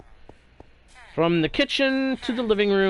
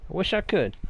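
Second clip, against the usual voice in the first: mock pirate accent; 3 dB quieter, faster than usual. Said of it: "Sorry for the accent shift".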